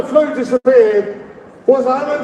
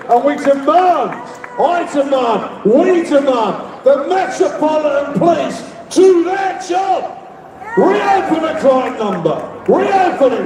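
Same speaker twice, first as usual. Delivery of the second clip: raised, higher rally shout; rally demand; 3 semitones higher than usual. Real, not acted. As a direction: demand it from the crowd, rising.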